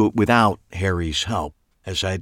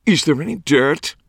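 eager, breathy gossip hunger; breathless; 7 semitones higher than usual. A narrator's reading. Clive in the narrator's face, breathless and eager. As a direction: lean in and ask breathlessly. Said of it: "he asked breathlessly".

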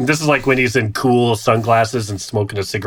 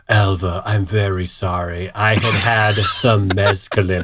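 lower, subdued mock apology; apologetic boss; 5 semitones lower than usual. Boss apologising to his secretary next day, mildly acted contrition. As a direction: apologise low and haltingly. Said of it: "he's like".

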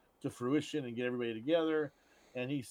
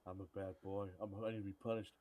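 hammed-up movie voice; 19 dB louder than usual. Acting out movie scene, high squeal.

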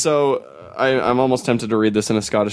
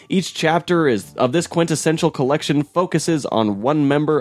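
blurb read-aloud; 3 semitones higher than usual. Shown as a demonstration. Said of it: "I'm just gonna read straight off the back cover".

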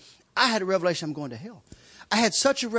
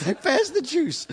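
slow, higher, laughing punchline; laughing slowly; 7 semitones higher, 4 dB louder, slower than usual. Real, not acted. Preacher delivering the punchline to the congregation, laughing. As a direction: draw out the punchline while laughing.

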